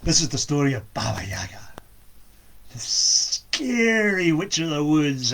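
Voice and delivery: hushed whisper to open the tale. A narrator's reading. Storyteller whispering the opening to listeners. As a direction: breathe the title like a secret.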